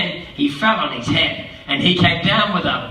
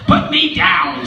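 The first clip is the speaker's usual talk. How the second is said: louder, slowed plea; pleading fish; 4 dB louder, slower than usual. Acted. The fish pleads with the cat again, louder. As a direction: complain louder the second time.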